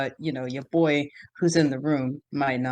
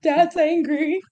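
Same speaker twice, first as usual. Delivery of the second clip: surprised; 10 semitones higher, 3 dB louder than usual. Retold or imitated. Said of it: "So it's just like".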